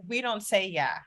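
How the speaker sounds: a prim little corrector, last word jumps up loud; mock strict child, snapping out the "yes"; grammar police kid. Son correcting mom on her grammar, mock strict. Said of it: "he was".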